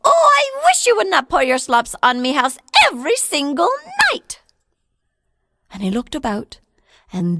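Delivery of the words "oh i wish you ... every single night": high, louder little fairy voice; a tiny voice calling from nowhere; high wee-folk voice; mysterious wee voice. Acted. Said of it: "he heard the voice say".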